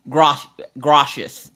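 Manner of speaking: "gracias" said slowly as "GRAH-shus"; "gracias" mangled into "groshus"; child's mispronounced gracias. Retold or imitated. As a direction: say "gracias" with a sh sound, drawn out. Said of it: "as she called it".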